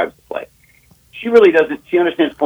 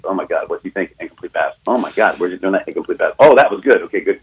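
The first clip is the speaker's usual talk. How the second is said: imitating his girlfriend; 2 semitones lower, faster than usual. Host mimics how his girlfriend calls plays on the phone, lightly imitated. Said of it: "a play chart of how she calls it".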